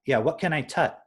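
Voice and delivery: "tut" with t for the k of cut; light child imitation saying "tut"; toddler's "tut". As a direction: kid agreeing, still saying "tut". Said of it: "And he was like".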